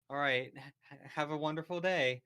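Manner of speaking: lightly voiced cartoon princess; Princess Celestia voice. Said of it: "you hear Princess Celestia's voice".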